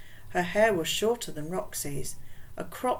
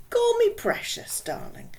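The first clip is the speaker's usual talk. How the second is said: put-on West Indian accent; 4 dB louder than usual. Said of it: "in a strong West Indian accent".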